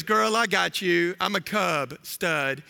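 lightly voiced swaggering cub; Simba. Cub Simba wooing his girlfriend, cocky and smooth. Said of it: "And he goes".

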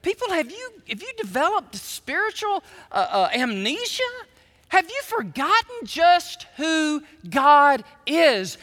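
high, pleading prophet's call; high prophet's plea, slowing on the last question; Isaiah pleading. Retold or imitated. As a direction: cry out like Isaiah to forgetful people. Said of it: "I could just see Isaiah going".

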